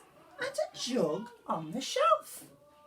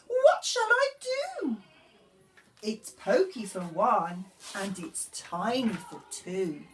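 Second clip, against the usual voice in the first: put-on old lady crying out; 2 semitones higher, 3 dB louder, slower than usual. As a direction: wail like a flustered old granny. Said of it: "The little old lady cried".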